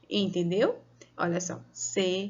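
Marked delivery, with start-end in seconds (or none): 1.7-2.2 "se... pa... ra... ção"; slow, syllable by syllable. Shown as a demonstration. Teacher showing what syllables are, syllable by syllable. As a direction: leave a long gap after each syllable of "separação". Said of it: "devagar que vai dar".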